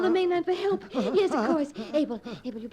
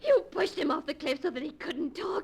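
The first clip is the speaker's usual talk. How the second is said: tearful accusation. Acted. Girl accuses in distress.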